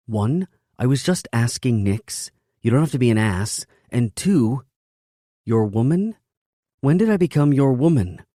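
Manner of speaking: high, loud indignant woman. Acted. Woman indignant at her lover.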